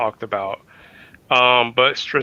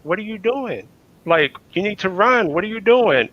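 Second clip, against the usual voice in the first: panicked crowd; 7 semitones higher than usual. Retold or imitated.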